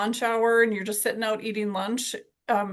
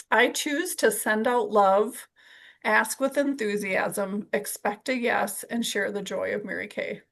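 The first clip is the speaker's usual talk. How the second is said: slow and deliberate, word by word so they can write it down; slow dictation. Shown as a demonstration. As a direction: read it out slowly for note-taking. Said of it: "you may wanna write this down".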